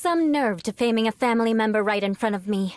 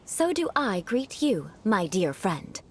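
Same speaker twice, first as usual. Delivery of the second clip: aristocratic greeting. Shown as a demonstration. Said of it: "allow me to demonstrate".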